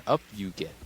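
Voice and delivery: half-hearted attempt at an alien master, near own pitch; lightly voiced wise creature, tentative; Yoda. Old master urging Rey up, faint imitation. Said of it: "I can't fucking do Yoda".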